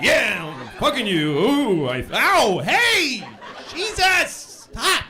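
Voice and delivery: rising, hammed-up ow and protest; mock pained yelps. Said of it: "I'm trying to, like".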